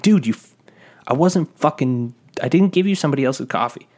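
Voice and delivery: stumbling mock exasperation, pushed up in pitch; exasperated protest. Worker defending himself to an angry customer, retold exasperation.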